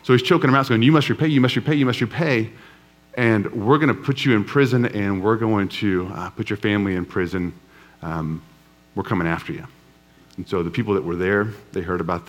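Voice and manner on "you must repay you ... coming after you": a bully squeezing out the debt, fading menacing; mock furious demand. Servant choking debtor, demanding repayment.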